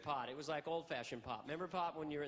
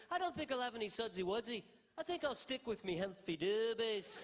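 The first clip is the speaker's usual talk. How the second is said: impression of a famous singer; 4 semitones higher than usual. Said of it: "And he goes".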